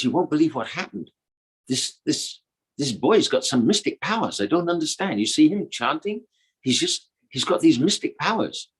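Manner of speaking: lightly voiced girl, bewildered; Radha's voice. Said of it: "in Radha's voice".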